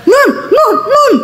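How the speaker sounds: high-pitched frantic calling; husband yelling for wife. Retold or imitated. Husband calling his wife like one possessed, high excited yell. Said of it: "dia teriak, dia panggil saya".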